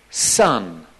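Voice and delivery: put-on low, tender word to a child; loving. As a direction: say it low, as to a loved son. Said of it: "It was a bit like that".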